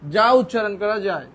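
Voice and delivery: slow, deliberate words with gaps; slow dictation. Shown as a demonstration. Teacher defining a syllable, slow and deliberate. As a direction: dictate it word by word, drawn out.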